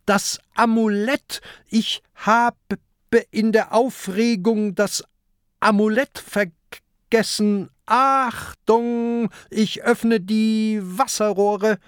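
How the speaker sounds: high, urgent pirate voice; alarmed, high-pitched calling to the crew; agitated shouting. A narrator's reading. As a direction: cry out high, all in a fluster. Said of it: "schreit Peter plötzlich".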